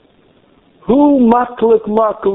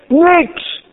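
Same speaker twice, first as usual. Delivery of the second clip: high emphatic nothing; 12 semitones higher than usual. Acted. Emphatic storytelling.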